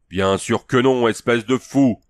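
voix forte et haute d'homme excédé; rugissement exaspéré. Acted. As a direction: lui renvoyer l'insulte avec exaspération. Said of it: "rugit le Cimmérien exaspéré". (le Cimmérien rugit, exaspéré, contre le vieux chef)

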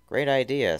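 high, loud eager yip; excited yip. A narrator's reading. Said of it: "Tails yipped".

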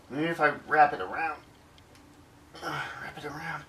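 whispered to himself while fiddling. Real, not acted. Man fiddling with his charger cord, whispering to himself. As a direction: breathe it under your breath.

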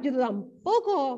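ordinary delivery

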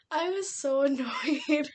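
real laugh breaking into the words; laughing in exasperation. Real, not acted. Reader ranting about Belly, laughing in exasperation. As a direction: laugh through the annoyance. Laughing while recalling her annoyance.

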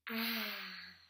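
long breathy "ah" of contentment; relaxed sigh. Acted. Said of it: "Like a relaxing sound".

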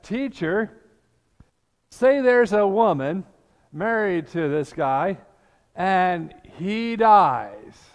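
smirking Sadducees springing their trap. Retold or imitated. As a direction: tell it like a sly joke you can barely keep straight. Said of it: "they're kind of smirking".

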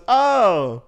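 drawn-out, uncertain "oh", then a delayed thanks; retold awkward thanks. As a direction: imitate an underwhelmed reply, pause before thanking. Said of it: "Like, just like that".

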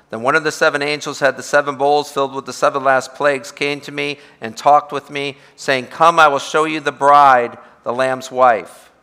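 brisk, projected Bible reading; preacher reading a passage aloud; scripture reading. Acted. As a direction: read scripture out to a congregation, slowing on the final phrase. Reads scripture aloud to congregation.

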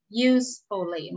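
Usefully stretched out slowly, YOOS-fuh-lee; slow model pronunciation. Shown as a demonstration. Teacher repeats word slowly for the class to copy. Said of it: "Chúng ta sẽ cùng đọc cho cô những từ sau đây nha".

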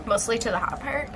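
softly deadpan sarcasm; a quiet, self-mocking sarcastic aside. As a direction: say it softly, as if you mean it. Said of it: "That was sarcasm".

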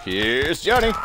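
hammy horror movie line; movie quote voice. Retold or imitated. Echoes the famous movie line.

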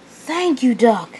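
high-voiced engine thanks; acted relieved gratitude; grateful reply. Percy thanks his rescuer.

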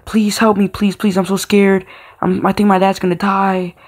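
mock-scared plea to the neighbor; pleading for help. Scared child begging the neighbor for help, retold pleading. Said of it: "I'm like".

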